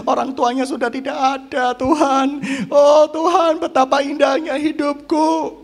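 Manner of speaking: lightly hammed-up rapture; dreamy mock prayer. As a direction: act out a starry-eyed plea to God. Acts out a dreamy, thankful prayer.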